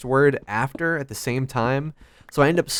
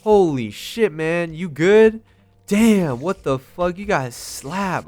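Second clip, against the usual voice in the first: mocking high school guy; 6 semitones higher, 5 dB louder, slower than usual. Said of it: "and he was like".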